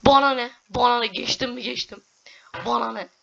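high, loud who cares; defiant. Real, not acted. Gamer shrugging off danger loudly, defiant. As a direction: toss it off cheekily. Defiant exclamation while playing.

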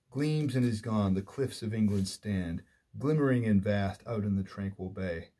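measured verse reading with stressed line openings; poem recitation. Acted. Lecturer quoting the poem to a class, recited in measured verse. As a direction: read it as verse, leaning into each opening word.

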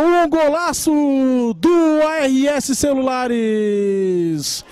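explosive goal commentary. Real, not acted. Goal just scored, commentator erupts.

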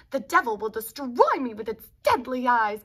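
loud, panicked bellow; distraught bellow. Acted. Dinochus bellows at the devil, distraught and loud. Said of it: "bellowed the distraught Dinochus".

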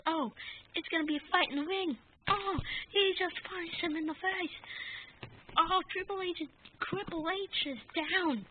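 fast, high excited announcer calls the punch; excited ringside commentary. Acted. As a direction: call the fight like a hyped commentator.

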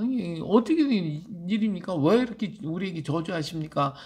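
mildly protesting mock complaint; 따지는 말투. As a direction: act out people taking God to task, lightly. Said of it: "따지는 거예요". (살짝 따지듯 항의하는 흉내)

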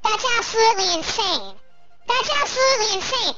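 sped-up chipmunk voice effect; squirrel voice filter. Real, not acted. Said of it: "I had the squirrel voice on".

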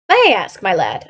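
over-polite lilt, dropping at the end; bland politeness. Acted. Watson questions the messenger to expose Holmes, blandly polite. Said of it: "I said in the blandest voice".

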